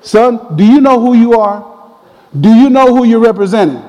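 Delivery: high, mock-stern fatherly challenge; scolding dad. Dad on phone to embarrassing son, scolding. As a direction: challenge him as an indignant father.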